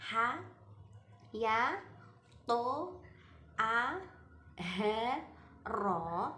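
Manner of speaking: each letter said separately, held; letter names. Shown as a demonstration. Teacher lists the mad harfi letters, drawn out. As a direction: spell out the six letters. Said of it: "yaitu ada huruf".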